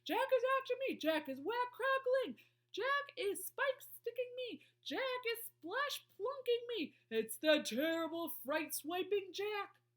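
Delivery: high, loud, drawn-out wailing; terrified bellow. A narrator's reading. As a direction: howl each line like a panicking giant. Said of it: "bellowed the flesh lump eater".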